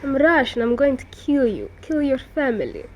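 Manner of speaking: mock Russian villain accent, lightly done; a hint of a movie Russian accent, menacing; half-hearted Russian accent threat; stereotypical Russian accent. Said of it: "the stereotypical Russian accent".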